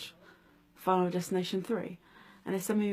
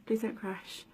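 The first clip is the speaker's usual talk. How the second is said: frightened pleading; 3 semitones higher than usual. Retold or imitated. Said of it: "All I could think of".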